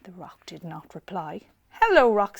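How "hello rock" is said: loud friendly call; shouted hello. Acted. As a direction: call across the snow. Betty calls again.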